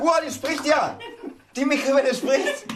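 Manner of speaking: high, loud astonished voice; amazed. Real, not acted. Amazed the microwave talks.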